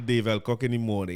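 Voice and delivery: plain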